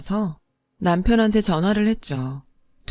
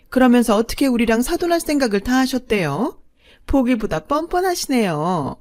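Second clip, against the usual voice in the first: higher, mocking rich woman's voice; sneering in-law; 4 semitones higher, 4 dB louder than usual. A narrator's reading. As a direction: look down on the bride's family. Second mother mocks the bride. (비아냥거리는 둘째 어머니 목소리)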